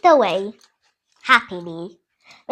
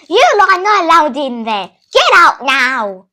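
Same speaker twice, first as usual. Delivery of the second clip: rat scolding; 6 dB louder than usual. Retold or imitated. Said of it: "the rat was like".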